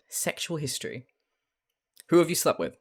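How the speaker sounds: put-on a light, mixed Californian accent, businesslike questioning; rough Californian accent. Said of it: "not even really properly Californian accent".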